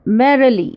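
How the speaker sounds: merrily with weight on mer, then two light syllables; dactyl stress. Shown as a demonstration. Teacher giving a dactyl example, first syllable of merrily stressed. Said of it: "तो mer क्या है".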